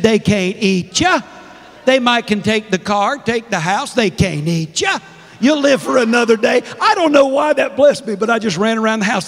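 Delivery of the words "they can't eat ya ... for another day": deep South mother-in-law. Retold or imitated. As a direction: pass on her advice in Southern speech. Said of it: "She said".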